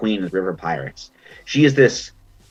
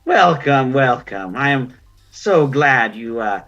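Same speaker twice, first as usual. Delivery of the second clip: ancient otter crone; 2 semitones higher than usual. Acted. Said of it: "And she's like".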